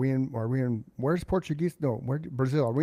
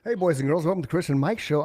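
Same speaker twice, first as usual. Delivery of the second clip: show host intro; 4 semitones higher than usual. Acted.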